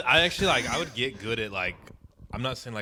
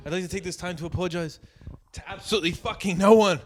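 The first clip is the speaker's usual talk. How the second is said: mock formal announcement; 7 semitones higher, 6 dB louder than usual.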